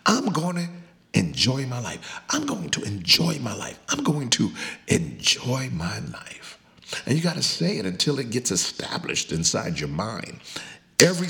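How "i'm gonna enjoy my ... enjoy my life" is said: fervent, rising declaration; a congregation-leading declaration, emphatic; with conviction. Shown as a demonstration. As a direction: say it like you really mean it. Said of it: "say it like you really mean it".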